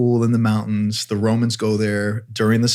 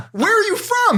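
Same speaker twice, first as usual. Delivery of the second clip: much higher, amazed where-are-you-from; pitched-up surprised question; astonished question. Retold or imitated. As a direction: blurt it out in disbelief. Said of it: "I'm like".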